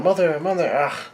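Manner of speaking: high-pitched imitated children's cries; mock yell. Kids yelling for their mother, high mock yell. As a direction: cry out high, without full volume. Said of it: "the kids are yelling out".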